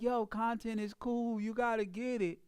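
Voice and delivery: bored sales pitch without energy; dry, low-energy. Shown as a demonstration. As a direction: say it like you don't care. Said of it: "if I came in there dry".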